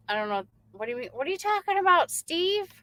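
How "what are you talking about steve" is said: puzzled surprise. Real, not acted. Puzzled at a viewer's comment.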